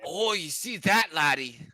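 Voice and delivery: hammed-up British, drifting Irish-Brooklyn; botched British accent with an Irish lilt; mock British accent. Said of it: "You sound like an old, like, Irish lady in Brooklyn".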